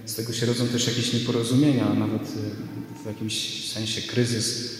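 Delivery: sermon recorded with church echo; preaching in a reverberant church; church reverb. Real, not acted. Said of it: "nagrał się też pogłos z kościoła". (pogłos kościelny)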